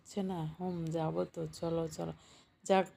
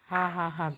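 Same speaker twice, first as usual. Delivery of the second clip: hearty laugh. Acted. Brother laughs at sister's joke.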